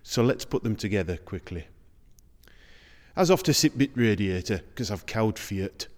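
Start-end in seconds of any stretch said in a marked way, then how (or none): 3.2-5.9 Dales dialect sentence. Shown as a demonstration. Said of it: "the first four characteristics in one sentence".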